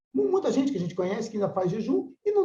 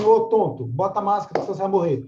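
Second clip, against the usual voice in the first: rude scolding; 2 semitones lower, 4 dB louder, faster than usual. Retold or imitated. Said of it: "chego pra esse cara e falo assim".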